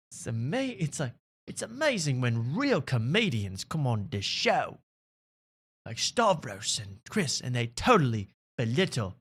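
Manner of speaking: mocking a fan in a clumsy Australian accent; bad Australian accent. Mocking a podcast fan in a bad Australian accent. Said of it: "I can't do podcast cringe in an Australian accent".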